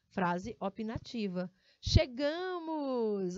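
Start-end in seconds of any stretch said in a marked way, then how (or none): 1.8-3.4 drawn-out exclaimed Chegamos!, slow; slow excited announcement; exclamation. Shown as a demonstration. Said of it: "Olha a diferença do chegamos".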